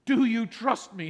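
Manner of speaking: whispered, tender answer; gentle voice of God. Acted. God answering the grieving believer, whispered and gentle. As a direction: answer softly like a loving father. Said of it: "And God says".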